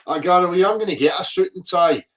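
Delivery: ordinary talk, nothing marked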